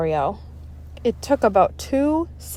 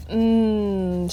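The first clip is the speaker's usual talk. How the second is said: moaning. Acted. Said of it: "she moaned".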